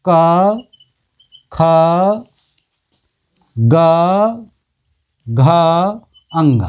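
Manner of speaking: क, ख, ग, घ each held as a long syllable; letter-by-letter recitation. Shown as a demonstration. Teacher showing the throat-sound row to students, letter-by-letter recitation. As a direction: recite the throat consonants one at a time, with pauses. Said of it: "इन सभी पांचों वर्णों का उच्चारण स्थान कंठ है".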